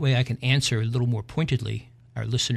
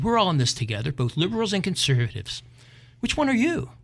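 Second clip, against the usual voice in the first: woman's voice; 6 semitones higher than usual. Acted. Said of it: "she said".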